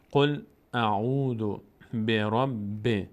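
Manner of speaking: slow, drawn-out measured recitation; Quran recitation. Shown as a demonstration. Teacher models the verse for learners, slow recitation. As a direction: recite slowly, holding the long vowels.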